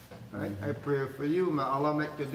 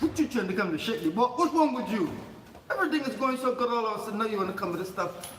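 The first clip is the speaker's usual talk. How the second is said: a hammed-up, laughing protest; mock outrage; 5 semitones higher than usual. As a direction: play the annoyed Meccan, amused at their outrage. Voicing Meccans angry at Prophet.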